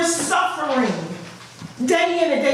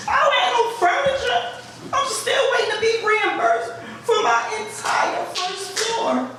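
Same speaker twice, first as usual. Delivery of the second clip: high, raised voice, near tears; pleading with the council, voice climbing higher; getting emotional; 6 semitones higher than usual. Real, not acted. Resident tells councilwoman her ceiling collapsed, emotional and high. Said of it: "I'm getting emotional".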